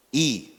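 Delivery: "i" said short with a slight rise; Mandarin tone demo. Shown as a demonstration. Preacher giving an example of tones, short "i". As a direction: sound out "i" as one Mandarin tone.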